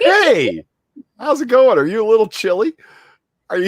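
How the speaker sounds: high, cutesy greeting voice; high put-on voice. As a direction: coo at the photo like a pet. Talking to mugshot photo.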